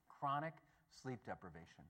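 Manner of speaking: spaced out, dropping low and soft on "sleep deprivation."; slow deadpan repeat. Shown as a demonstration. Preacher repeats the punchline to the congregation, slow and dry. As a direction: let it land word by word, dry. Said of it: "What's his definition of parenthood?".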